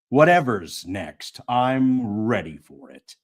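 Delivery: steady, weighty first-person read; grim audiobook voice; dramatic audiobook narration. Acted. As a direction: read it like a determined hero.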